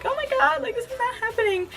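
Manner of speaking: high but soft awed squeal; hushed disbelief. Retold or imitated. Fan hearing a singer's voice, hushed and starstruck. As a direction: breathe it out in disbelief. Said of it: "so I was like".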